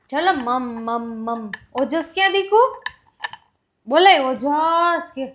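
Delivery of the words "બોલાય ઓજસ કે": put-on slow, drawn-out call of ઓજસ for the child to copy; slow prompt. Shown as a demonstration. Mother modelling the name ઓજસ slowly for her daughter. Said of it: "મોટેથી બોલાવે એટલે આવશે".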